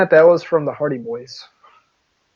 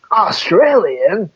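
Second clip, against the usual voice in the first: drawn-out, raised incredulous question; mock disbelief; 5 semitones higher, much slower than usual. Imagined cops noticing the accent, mock disbelief. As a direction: stretch it upward as if suspicious. Acting police hearing the accent.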